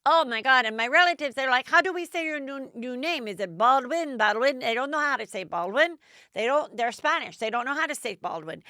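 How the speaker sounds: a touch of breathless excitement, imitating her; excited retelling. Podcaster imitates Hilaria gushing about her Spanish relatives, mock excited. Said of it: "And then she said".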